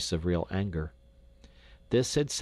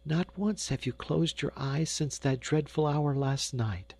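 put-on coaxing little girl; 4 semitones higher than usual. Daughter coaxing mother to rest.

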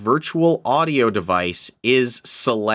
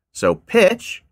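high pitch with flanger filter; electronic flanger voice; 10 semitones higher, 4 dB louder than usual. Real, not acted. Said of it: "I want more of an electronic sound to my voice".

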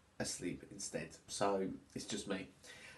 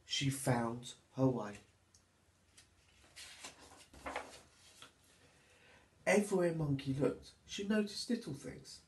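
put-on lively, sing-song reading for little children; storybook narration; 2 semitones higher than usual. A narrator's reading. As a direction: read it like storytime for toddlers.

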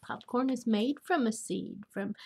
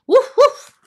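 high, loud woofing; two sharp high barks, acted out; dog barks; 13 semitones higher, 17 dB louder than usual. Grandmother reading Biscuit book to children, dog barks.

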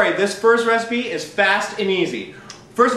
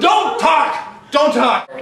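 angry shout; 5 semitones higher, much slower than usual. Acted. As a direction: bark it to shut him up. Yelling at co-host.

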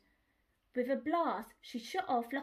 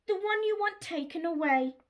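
wailing; 5 semitones higher, 5 dB louder than usual. Acted. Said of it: "wailed Dolly".

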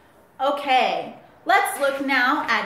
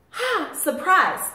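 mock excitement; 3 semitones higher, slower than usual. Shown as a demonstration. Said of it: "when we say something that's exciting".

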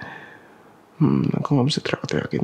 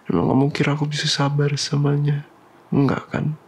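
angry. Acted. Angry confrontation with girlfriend.

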